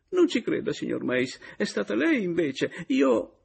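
high, loud plea near tears; tearful denial. A narrator's reading. Adriana pleading with Meis, high tearful denial. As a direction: insist on the truth, close to crying.

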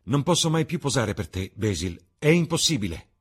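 high, loud, recoiling protest; exclaimed refusal. A narrator's reading. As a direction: refuse outright, voice jumping up. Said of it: "esclamò Dorian facendo un passo indietro".

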